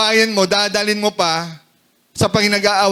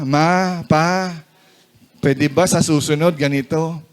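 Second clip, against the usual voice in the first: lower, measured and mild; calm, gentle request; 5 semitones lower than usual. Shown as a demonstration. Spouse asking partner for a change next time, calm and gentle. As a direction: ask it gently, keeping the voice down. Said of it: "Pwede mo naman sabihin ng mahinahon".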